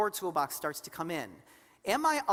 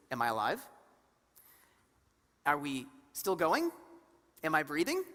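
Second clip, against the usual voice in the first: critter brain asking; 5 semitones lower than usual. Retold or imitated. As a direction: voice the reptile brain checking it's alive. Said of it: "The question it's constantly asking".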